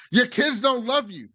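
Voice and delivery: a light put-on cruel taunt; imitating Logan. Logan roasting Tom, in a lightly mocking voice. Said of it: "He was like".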